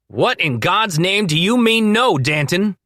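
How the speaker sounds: high, loud outraged yell; furious shout. A narrator's reading. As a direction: explode at him. Danny furious at refusal.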